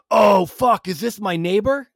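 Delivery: high, loud burst of mock alarm; high-pitched, comic horror breaking into laughter; imitating shocked realization. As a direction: blurt it as the mistake dawns. Neighbor realizes he called wrong person.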